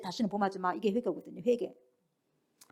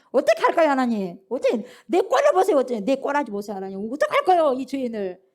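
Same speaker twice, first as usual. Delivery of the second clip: desperate pleading; 4 dB louder than usual. Acted. Sinner begging God for direction, desperate pleading.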